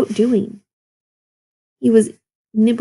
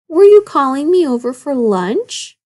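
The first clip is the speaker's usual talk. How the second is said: grinning; 6 semitones higher, 4 dB louder than usual. A narrator's reading. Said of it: "the old wolf grinned".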